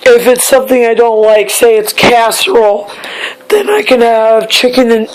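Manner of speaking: losing her voice, hoarse. Real, not acted. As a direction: talk through a worn-out hoarse voice. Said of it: "sorry, I lost my voice".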